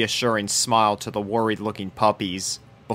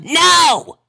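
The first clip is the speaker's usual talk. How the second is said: higher, sharp no; losing temper; 5 dB louder than usual. A narrator's reading. Rainbow at the end of her patience with Sweetie Belle. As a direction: patience snapping. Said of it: "reaching the limits of her temper".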